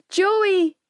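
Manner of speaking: high, fearful call. A narrator's reading. Young woman searching the house for her boyfriend, calling out. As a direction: call his name, dreading no answer. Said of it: "I called out, feeling lightheaded".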